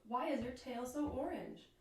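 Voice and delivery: lightly voiced, mildly amazed question; astonished bird. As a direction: ask as a surprised little bird.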